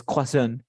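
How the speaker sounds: croissant said "kwa-SON", with no R; French pronunciation. Shown as a demonstration. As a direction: give croissant its French-style "kwa" start. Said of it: "es francés". (croissant a la francesa, "cuasón")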